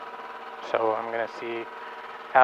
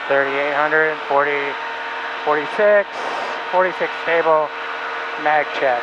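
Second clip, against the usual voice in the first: shouting over engine; 2 semitones higher than usual. Real, not acted. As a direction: call it out over the run-up. Engine run-up, talking over noise.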